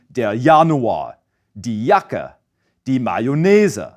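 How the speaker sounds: "Januar", "Jacke", "Mayonnaise" with a soft Y sound at the start of the J; J said like English Y, slowly; German J as soft Y. Shown as a demonstration. Teacher demoing German J to learners, soft Y. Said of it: "it's always pronounced as a soft Y sound".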